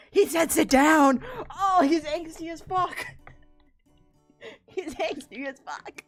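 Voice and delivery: high, loud drawn-out squeal; mock swooning fans. Streamer imitates fans reacting to an angsty character, mock squeal. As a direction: gush and squeal, laughing along. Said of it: "when you guys are all like".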